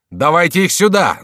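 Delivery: high, loud bellow; bellowing courtier. A narrator's reading. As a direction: roar for them to be brought. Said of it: "заревел Мажерон". (громкий рёв)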